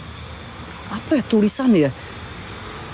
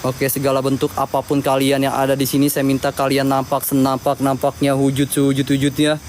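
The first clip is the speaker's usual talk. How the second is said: summoning incantation; 3 semitones lower than usual. Acted. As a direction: intone it like a ritual.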